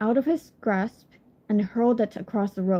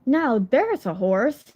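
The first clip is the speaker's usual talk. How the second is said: slow, admiring exclamation; exclaiming; slower than usual. Acted. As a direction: onlooker exclaiming in slow wonder. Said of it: "those who saw her exclaimed".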